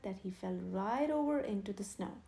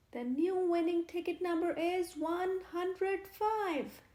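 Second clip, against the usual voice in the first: slow, higher announcement; vicar announcing; 7 semitones higher, 4 dB louder than usual. A narrator's reading. Vicar announces the new winner, slow public call. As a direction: proclaim it to the crowd. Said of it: "the vicar announce".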